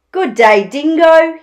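loud, hearty animal greeting; story-time platypus voice; Platypus, friendly greeting. Acted. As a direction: call out a cheery hello to Dingo.

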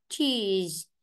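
"cheese" with its ending fully sounded; full final sound. Shown as a demonstration. Teacher showing students not to swallow endings, careful ending demo. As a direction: hold "cheese" through the last consonant. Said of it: "âm đuôi là phải đọc triệt để".

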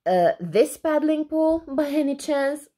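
mild, high-pitched screech; understated storybook screech. Acted. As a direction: raise it high in sarcastic challenge. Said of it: "screeched Mary".

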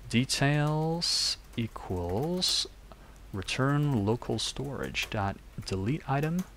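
put-on American accent. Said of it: "Let's just do an American accent".

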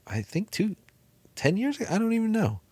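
high, unsure mock answer; playing someone who can't remember; mock vague answer. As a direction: act out a fuzzy, unsure reply. Vague answer about quitting drinking.

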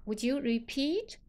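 gently ask, lifting "repeat"; softened tone. Shown as a demonstration. Teacher modelling a milder request, softened tone. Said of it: "如果我们把语气缓和下来".

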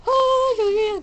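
high, loud excited cry; thrilled by a discovery. Real, not acted. Excited game reaction.

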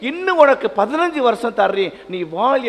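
high, loud fervent blessing; God blessing the weeping man, fervent and loud. Acted. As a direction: proclaim the promise with fervour. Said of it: "என்று கடவுள் நம்மை வாழ்த்துகிறார்".

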